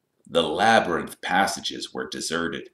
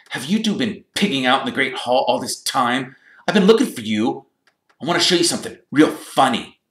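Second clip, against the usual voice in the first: drawling Malfoy; 8 semitones higher, 5 dB louder than usual. A narrator's reading. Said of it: "he drawled".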